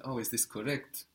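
softly tentative question, put on for the learner; mock-unsure asking; imitating unsure question. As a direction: mimic a learner checking an answer, rising at the end. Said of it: "because you're asking me".

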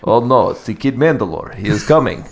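put-on flat, monotone Russian accent; deadpan Russian warning. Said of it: "that same accent, but Russian?".

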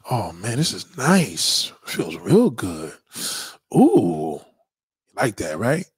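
low, slow, savouring every word; slow seductive purr. Acted. Man sipping a drink with his date, slow and seductive. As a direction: seduce her with each sip.

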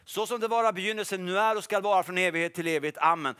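steady liturgical recitation; recited liturgy. Retold or imitated. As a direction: chant it like morning prayer. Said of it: "Och så gjorde han så här".

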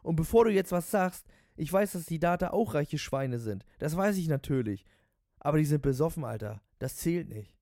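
high, loud pre-emptive argument; head off any objection, worked up; ranting cabbie. Acted. Voices the ranting taxi driver.

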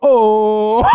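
a mock crowd's excited "Oh!"; lightly hammed crowd gasp; imitating crowd pop. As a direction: copy a crowd reacting, high and eager. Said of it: "so the crowd go".

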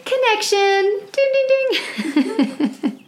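high, laughing, thrilled cry of discovery; excited delight. Real, not acted. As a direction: ring it out like a quiz bell, way up high. Delighted at a Bible connection.

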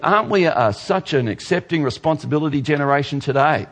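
dry mock praise of the generation; light sarcastic tone; sarcastically. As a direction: say it like you've got to be kidding. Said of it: "He said sarcastically".

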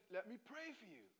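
Jeremy Jennings boomy voice. Retold or imitated. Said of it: "he's got this big boomy voice".

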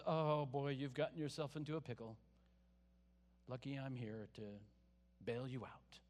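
mildly mock the smug helper bailing someone out; condescending savior. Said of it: "the condescending Savior who says".

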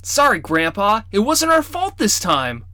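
put-on high, pleading boy's apology; protesting kid's apology; boy crying out. A narrator's reading. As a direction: plead his innocence to grandpa. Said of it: "Rawl cried".

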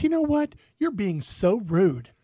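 mock offended, slow on being so rude; offended woman. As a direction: lightly imitate an indignant lady. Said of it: "She goes".

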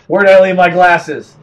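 put-on loud confused old man; doddering old man. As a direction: fuss like a forgetful old man.

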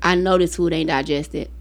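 low, slow mock kid; lightly voiced teen. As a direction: drag it out like a kid who won't stop eating. Mother mocking kid eating again.

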